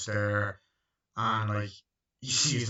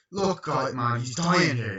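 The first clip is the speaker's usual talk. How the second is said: urgent plea; 3 semitones higher, 7 dB louder, slower than usual. Retold or imitated. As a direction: call out that a man is dying. Prisoner pleads for sick man.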